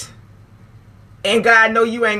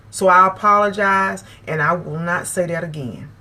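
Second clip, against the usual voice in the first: sincere apology; 4 semitones lower than usual. Shown as a demonstration. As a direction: apologise gently and mean it. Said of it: "respectful enough to come back and say".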